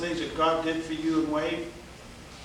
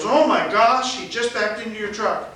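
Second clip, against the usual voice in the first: raised, mildly acted shock; secretary's alarm; 4 semitones higher, 4 dB louder than usual. Secretary tells the man his truck was hit, mild mock alarm. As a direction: imitate a startled exclamation, pitched up. Retelling the secretary's reaction again.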